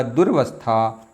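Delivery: दुर्वस्था said slowly and carefully, each syllable clear; teacher modelling दुर्वस्था slowly; slow model word. Shown as a demonstration. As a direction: drag out दुर्वस्था for them to copy. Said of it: "दुरावस्था नहीं होता है".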